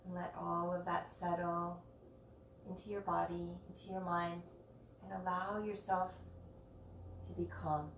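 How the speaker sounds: soft, unhurried calming voice with long pauses; guided meditation. Real, not acted. Yoga teacher guiding students to rest in Shavasana, soft meditation voice. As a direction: gently settle listeners into stillness, phrase by phrase. Leads the class into stillness.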